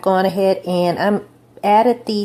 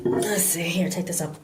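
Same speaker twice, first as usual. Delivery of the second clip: whispered aside; 6 dB quieter than usual. Real, not acted. Muttering to self while working.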